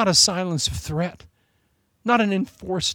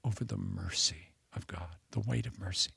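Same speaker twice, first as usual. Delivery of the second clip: awed whisper; 10 semitones lower, 13 dB quieter than usual. Real, not acted. Preacher describing the weight of mercy, whispered. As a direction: breathe the words out in reverence.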